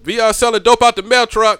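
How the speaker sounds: joking shout. Real, not acted. Loud accusation joke.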